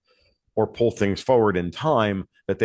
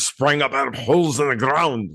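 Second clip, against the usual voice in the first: a hint of a Scottish Gimli brogue; half-hearted Scottish dwarf accent; lightly put-on Scottish accent quoting the dwarf; terrible Scottish accent; 4 semitones higher than usual. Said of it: "which I do a terrible Scottish accent".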